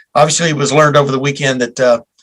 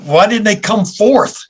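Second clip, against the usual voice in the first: mock puzzlement, rising higher on the question; facetious; 4 semitones higher than usual. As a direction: play the baffled questioner, tongue in cheek. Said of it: "I'm being facetious".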